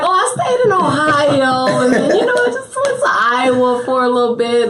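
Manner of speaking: a lightly voiced offhand bragger; mock casual name-drop. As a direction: toss off the places like nothing. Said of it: "You like".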